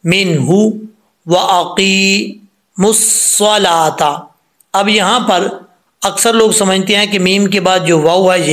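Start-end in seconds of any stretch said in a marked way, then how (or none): 0.1-4.4 slow recitation. Shown as a demonstration. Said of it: "लंबा करेंगे".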